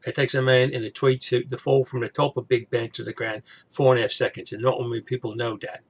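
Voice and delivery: a light Cockney Michael Caine voice; lightly voiced Michael Caine, telling a trivia fact; a hint of Michael Caine's accent; Michael Caine impression. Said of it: "I usually more like the Michael Caine".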